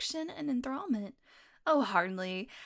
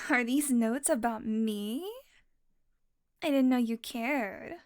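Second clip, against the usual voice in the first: teasing laugh; 4 dB louder, slower than usual. Acted. Flattered, teasing captive.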